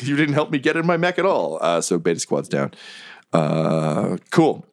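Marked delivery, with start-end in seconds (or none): 0.0-1.6 a touch higher, whiny complaint; lightly voiced goblin. Goblin complaining to his squad, lightly voiced higher whine. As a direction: gripe it with a hint of goblin. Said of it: "he's like".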